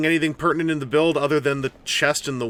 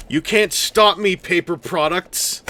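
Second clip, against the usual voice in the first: yelling; 3 semitones higher than usual. Acted. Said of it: "why I'm yelling".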